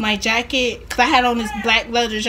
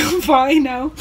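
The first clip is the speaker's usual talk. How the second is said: "I'm fine now" with "fine" stretched and rising; a drawn-out "fine", rising at the end; insistent reply; slower than usual. Retold or imitated. Repeated reply while embarrassed.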